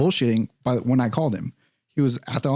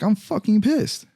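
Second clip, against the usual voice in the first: mock angry; 9 semitones higher, slower than usual. Telling off the detective.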